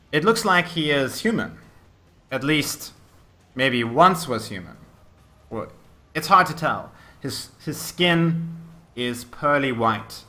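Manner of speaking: measured storytelling with dramatic pauses; game master narration. Acted. Game master describes the necromancer and his army, suspenseful narration. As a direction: lay out the menace phrase by phrase.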